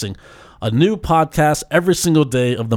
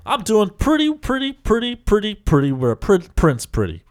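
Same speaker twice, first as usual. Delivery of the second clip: playful repeat; 5 semitones higher than usual. Acted. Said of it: "you just kept saying, "Pretty, pretty, pretty".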